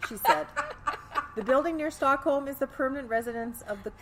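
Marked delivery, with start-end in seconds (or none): 1.4-3.9 put-on Wisconsin hoser accent. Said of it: "I kinda made it sound like a hoser".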